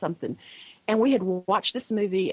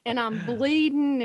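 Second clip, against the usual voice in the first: higher-pitched, lightly imitated boy; animated child; 4 semitones higher than usual. Son imagines himself burned, mildly animated imitation. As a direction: report the pretend injuries as an earnest child. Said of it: "he was so animated".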